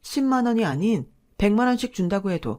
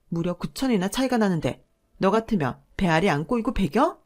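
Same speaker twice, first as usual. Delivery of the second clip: bitter rant. Acted. Sister-in-law ranting about money.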